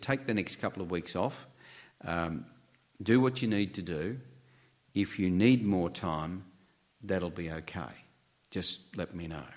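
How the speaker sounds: soft, gentle reassurance in short phrases; kindly boss. Retold or imitated. A boss giving a newly widowed employee time off, spoken kindly. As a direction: ease off softly, leaving room between phrases. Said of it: "very kindly".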